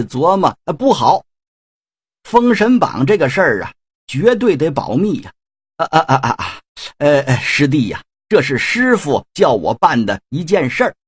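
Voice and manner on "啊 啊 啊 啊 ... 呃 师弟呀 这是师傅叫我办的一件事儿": put-on stammering evasive old man; nervous evasive stutter; hemming and hawing. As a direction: stall for time. Ziya stalls, hiding secret.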